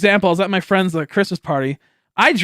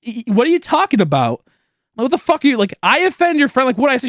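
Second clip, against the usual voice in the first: incredulous disbelief; 8 semitones higher than usual. Retold or imitated. Accused of offending her friend, he protests in high disbelief. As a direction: sound totally thrown by the accusation.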